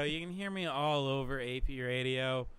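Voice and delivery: light announcer read; radio plug. Acted. Host promoting the station, announcer read.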